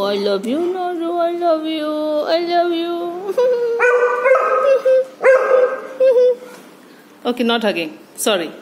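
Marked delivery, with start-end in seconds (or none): 0.6-3.0 higher, slow cooing to the pet; cooing pet talk. Real, not acted. 3.0-6.4 high, squealing burst of laughter. Real, not acted. Laughs at the pet.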